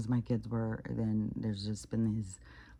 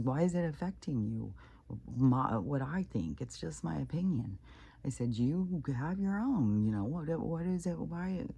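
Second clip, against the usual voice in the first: higher-pitched, questioning pushback, re-enacted; retold challenge; 5 semitones higher than usual. Retelling how she defended her opinion, challenging protest. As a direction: push back as if replaying an argument.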